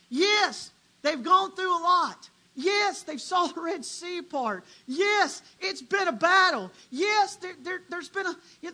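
loud, rising preacher cadence, each "Yes" punched; preaching at full force. Acted. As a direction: build the sermon to a roar.

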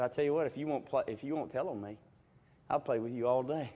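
soft, low fast deal-making; quiet, hurried mock pleading; hushed bargain. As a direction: whisper a desperate bargain.

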